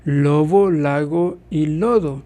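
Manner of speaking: Spanish fricatives between vowels; sounding out examples. Shown as a demonstration. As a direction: spell out "lobo, lago y lodo" with fricative b, g, d. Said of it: "Ejemplo, cuando está entre dos vocales".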